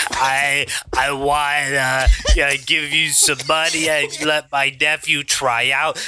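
lightly put-on wackadoo caller; hesitant, mildly goofy woman's voice. Adam imitating the woman who wants her nephew booked, lightly wackadoo.

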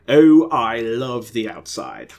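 slow, loud British cry of delight; loud, drawn-out happy shout; joyful yell. Acted. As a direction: call it out to the whole street. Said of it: "Ernest yelled".

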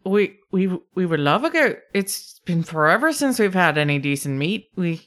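keen, lightly Scottish lilt; kobold Scottish brogue. Acted. Kobold welcomes a goat, keen Scottish lilt. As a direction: accept gladly in a mild brogue. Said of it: "Scottish brogue".

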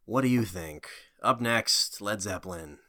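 slow, spaced-out song back-announcement; drawn-out deadpan DJ patter; mock radio DJ. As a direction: play a laid-back radio host between songs.

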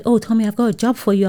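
imitating auntie. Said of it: "So she said".

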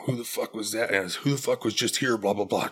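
retold angry demand. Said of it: "I just lost it".

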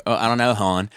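put-on joking Baltimore accent; lightly put-on Baltimore O in KNOW, then hon; Baltimore long O. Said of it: "that long O on everything".

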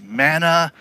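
whiny repeated manna, fading to a mutter; a hint of a sulky chant; mock whine. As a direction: drone manna like a bored complainer. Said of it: "what it sounds like to God".

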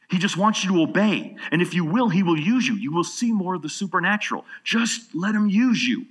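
loud, high impassioned exhortation; full-force preaching. Real, not acted. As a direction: drive it home to the congregation.

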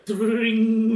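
long drawn-out ringing "dring"; imitated sound effect. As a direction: mimic a comic chime, laughing. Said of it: "if they had, like, a".

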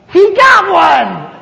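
high, loud and slow mock cheer; excited thought. Watching a man walk to the altar, slow excited shout. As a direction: cheer it out like a scored point. Thinking the preacher caught someone.

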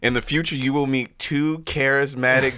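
mock-solemn velvety prophet, breaking into laughter at the end; deep, velvety voice. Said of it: "with that deep, velvety voice".

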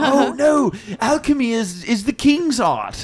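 haughty elf voice. Acted. Elf noble voiced in play.

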